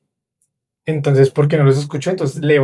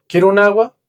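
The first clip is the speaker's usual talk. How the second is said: mock order; 6 semitones higher, 4 dB louder than usual. Ordering in shop, retold.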